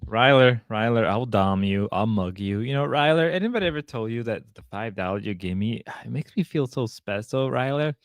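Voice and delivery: low mock-flirty impression; Grace voice. Imitating a streamer thanking Ryler for five dollars, mock-flirty. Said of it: "Gotta do the Grace voice".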